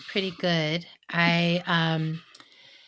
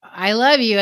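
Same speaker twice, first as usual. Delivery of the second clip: tree voice; 6 semitones higher, 9 dB louder than usual. Pretend. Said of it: "And it's just like".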